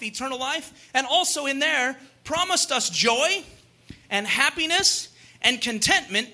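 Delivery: sermon delivery stressing key words; emphatic preaching. Acted. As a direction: preach it to the congregation. Preaches on a quotation.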